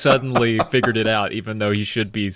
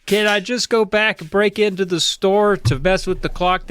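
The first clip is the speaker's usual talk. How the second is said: put-on kid pleading; 9 semitones higher than usual. Michael pleading to dad.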